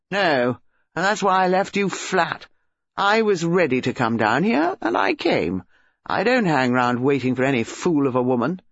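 put-on scornful boyfriend in a quarrel; irritated young man. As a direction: justify yourself with angry contempt.

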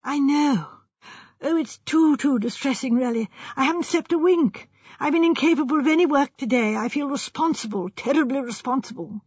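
anxious, rather precious gentleman; distressed young architect. Acted. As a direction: fret with a touch of guilt.

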